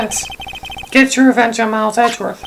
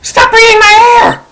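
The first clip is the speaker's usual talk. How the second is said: much higher, loud, unhinged threat; crazed rage; 10 semitones higher, 6 dB louder than usual. Acted. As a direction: scream like a madman. Crazed man attacks.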